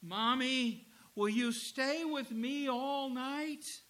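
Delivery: put-on small scared boy, high and slow; trembling child's voice. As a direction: plead like a frightened little boy. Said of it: "the little boy's trembling voice say".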